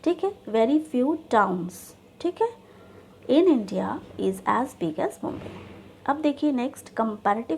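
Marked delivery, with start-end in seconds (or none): 0.4-1.7 very slow, "few" held; deliberate dictation of the key words. Shown as a demonstration. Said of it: "positive sentence होगी". 3.3-5.5 very slow, word by word; unhurried dictation of the ending. Shown as a demonstration. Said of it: "positive sentence होगी".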